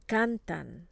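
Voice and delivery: "Cantan" with the weight on CAN; stress next to last syllable. Shown as a demonstration. Teacher models the rule for repeating, stress next to last syllable. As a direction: lean on the first syllable of "Cantan". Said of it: "stress next to the last syllable".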